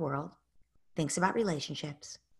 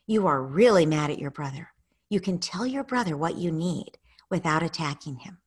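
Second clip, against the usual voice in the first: calm coaching parent. Shown as a demonstration. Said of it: "you might be able to say".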